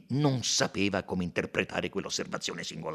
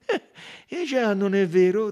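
Poirot, ironic; 10 semitones higher, 9 dB louder than usual. A narrator's reading. Poirot to the doctor, ironically agreeing. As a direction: let the irony show.

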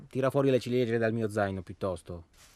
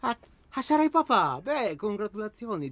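jumps much higher in mock amazement; overdone fake delight, louder on papà; sarcastic surprise; 11 semitones higher, 5 dB louder than usual. Needling his partner over the pregnancy news, mock surprised.

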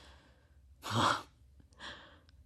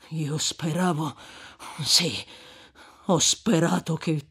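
plain reading voice

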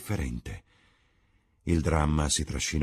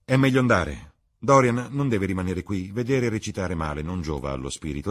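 lightly voiced languid aristocrat, a bit louder; amused worldly lord lecturing friends; Lord Henry holding forth; 4 semitones higher, 6 dB louder than usual. Lord Henry's long speech. (Lord Henry parla agli amici con ironia mondana)

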